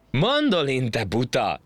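high, loud amused correction; amused teasing. A narrator's reading. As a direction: poke fun, pitched right up. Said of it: "nevetett Juli".

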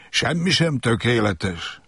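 slow, sighing disappointment. Acted. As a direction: let it out on a sigh. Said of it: "sóhajtott a róka". (sóhajtva, csalódottan)

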